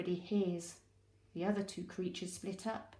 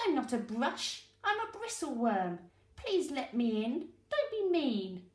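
pleading bristleworm; 4 semitones higher than usual. Acted.

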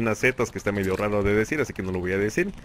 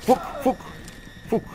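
frustrated curse; 12 semitones higher, 3 dB quieter than usual. Real, not acted. Just got killed in game.

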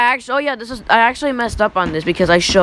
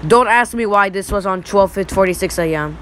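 voice crack. Real, not acted. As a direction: voice cracking mid-sentence. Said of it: "that was a voice crack".

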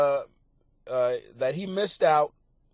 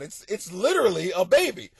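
exasperated parent; 3 semitones higher, 3 dB louder than usual. Retold or imitated. Parent telling self to calm.

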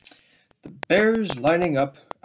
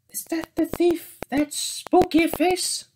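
scared whisper; 11 semitones higher than usual. Acted. Bears fear mummy face.

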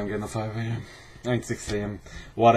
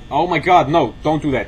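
panicked; 5 semitones higher, 6 dB louder, faster than usual. Real, not acted. Panicked reaction to a threat.

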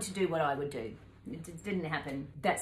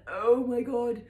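dismayed exclamation; 6 semitones higher, 8 dB louder, slower than usual. Retold or imitated. Realising she has no money.

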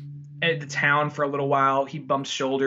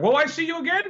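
high, imploring question; imitated woman pleading; 12 semitones higher, faster than usual. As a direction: ask in a high mock-female voice. Acts out woman's hopeful question.

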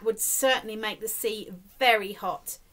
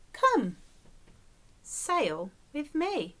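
gentle invitation; 3 semitones higher, slower than usual. Acted. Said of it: "and said to the snail".

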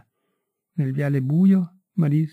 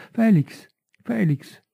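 a higher cry of his name, falling; exclaiming; 6 semitones higher, slower than usual. A narrator's reading. Marie crying out to Felix as he tears up, exclaiming. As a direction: call out to him in alarm. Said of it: "lei esclamava".

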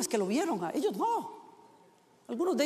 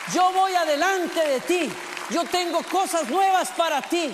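Jesus calling; 3 semitones higher, 3 dB louder than usual. Acted. Jesus calls believers by name.

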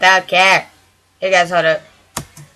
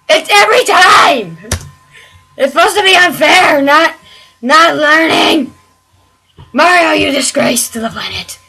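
frustrated rant; 4 semitones higher than usual. Real, not acted. Raging at the game.

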